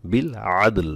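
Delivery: বিল আদল with a lightly held ল and no vowels after; বিল আদল both endings silent; light sakin stop. Shown as a demonstration. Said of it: "লামটা হালকা ধরতে হবে".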